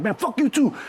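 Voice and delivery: high-pitched, heated outburst; angry accusation. Retold or imitated. Buyer accusing his own guy too, angry. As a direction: lash out at both of them.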